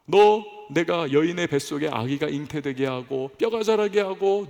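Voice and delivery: lightly voiced God questioning Job. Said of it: "하나님께서 욥에게 뭐라고 말씀을 하십니까". (욥을 꾸짖듯 묻는 하나님의 엄숙한 음성)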